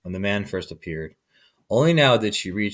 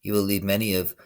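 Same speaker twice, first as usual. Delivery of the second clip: squeaky voice; 4 semitones lower, 7 dB quieter than usual. A narrator's reading. Tree frog piping in the man's ear, squeaky. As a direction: pipe it like a tiny frog. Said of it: "In a squeaky voice, he piped".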